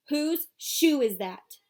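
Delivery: put-on a young girl pressing her brother; little sister Joey, alarmed. A narrator's reading. Joey confronts with the shoe.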